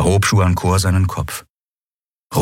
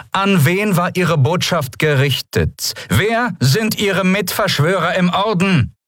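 higher, slow, cold questioning voice; cold interrogator; 13 semitones higher than usual. Acted. Commodore interrogates the prisoner, slow and cold. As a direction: spell out each question like an inquisitor.

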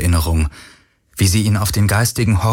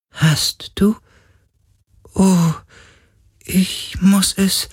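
ghost voice; 13 semitones higher, slower than usual. Acted.

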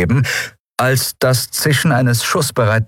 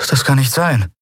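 disbelieving; 7 semitones higher than usual. A narrator's reading. Andriel in disbelief.

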